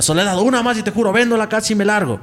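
amenaza imitada. Retold or imitated. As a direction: warn the ghost, retelling her ultimatum. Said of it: "Y decía". (amenaza imitada, tono más agudo)

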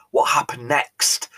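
whispered, slow and breathless with suspense; eager whisper. Retold or imitated. Viewers begging host Mike for the rest, whispered suspense. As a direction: hush it like you can't wait to know. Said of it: "I can hear you saying".

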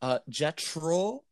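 slow mock French accent; french chef. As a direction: put on a French accent slowly. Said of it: "You got any more for us?".

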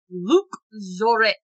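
mock French accent on the name. Host attempts French name on podcast, mock French accent. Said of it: "the best you get on my French accent".

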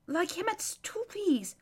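awed whisper. Acted. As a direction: breathe it in wonder. Hushed aside in amazement.

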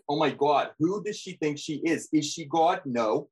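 put-on lightly done New Jersey accent; Australian doing New Jersey housewife; Teresa New Jersey accent. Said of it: "a pretty killer Teresa impression".

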